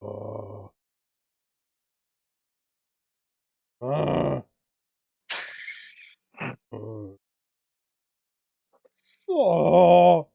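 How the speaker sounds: lightly voiced zombie groans; Minecraft zombie. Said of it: "you sound like that, the zombie from Minecraft".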